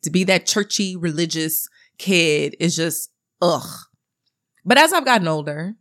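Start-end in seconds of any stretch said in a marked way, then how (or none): 3.4-3.9 short exasperated ugh; groan of frustration. Retold or imitated. Recalling being the churchy religious kid, exasperated groan. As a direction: let out a brief fed-up groan.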